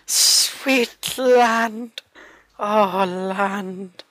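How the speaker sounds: high, ecstatic shout of land; excited cry. Real, not acted. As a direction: cry out like a castaway sighting shore. Cries out on seeing land.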